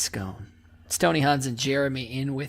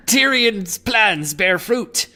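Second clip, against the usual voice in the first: pirate voice. Acted. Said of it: "It's just a pirate voice".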